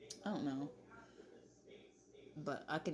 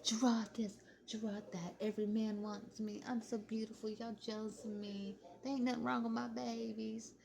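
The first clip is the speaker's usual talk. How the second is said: higher, vain bragging voice; mock Olivia bragging; 6 semitones higher than usual. Imitating Olivia boasting to her chat, hammed-up vanity. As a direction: brag like you're the prettiest. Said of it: "And she'd be like".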